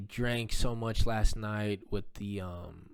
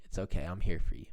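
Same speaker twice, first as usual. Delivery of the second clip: calm reassurance; 3 semitones lower, faster than usual. Retold or imitated. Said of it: "I was just so calm".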